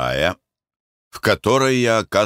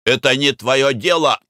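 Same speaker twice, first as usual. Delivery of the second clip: angry retort; 7 semitones higher, 4 dB louder than usual. A narrator's reading. Narrator snaps back at Mick.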